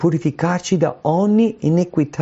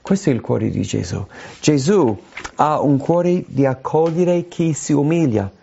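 normal talking voice

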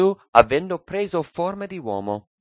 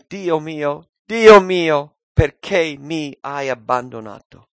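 mild preacher's cry, swelling on the repeat; retold appeal to God, falling away; 2 semitones higher, 5 dB louder, slower than usual. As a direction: plead aloud as if quoting a cry, easing off at the end. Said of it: "gridò a gran voce dicendo".

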